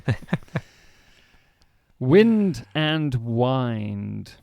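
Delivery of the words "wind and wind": very slow "wind" as short wind then "wind" as wyned. Shown as a demonstration. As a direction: draw out both vowels of "wind". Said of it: "W I N D".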